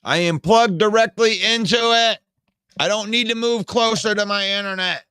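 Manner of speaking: real frustration. Real, not acted. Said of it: "I can't stand this".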